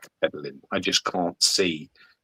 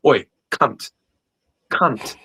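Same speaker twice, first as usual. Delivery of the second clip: a pushy shout from the water, pitched up and louder; rude shouted call for help; 6 semitones higher, 4 dB louder than usual. Retold or imitated. Drowning man yelling rudely at a passer-by, loud mock shout. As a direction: yell at a stranger rudely. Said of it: "the last thing you're gonna do is go".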